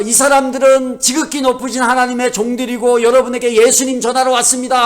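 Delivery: loud, high proclamation in one run; imitated shouting. Possessed woman following Paul for days, imitated shouting. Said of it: "하고 막 소리치는데".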